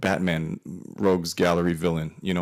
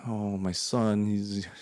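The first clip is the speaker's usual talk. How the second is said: mom's rant; 5 semitones higher than usual. Retold or imitated. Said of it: "she goes on this rant".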